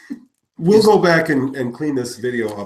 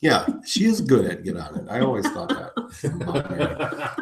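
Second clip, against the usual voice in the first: laughing; 3 dB quieter than usual. Real, not acted. Teasing joke, laughter around.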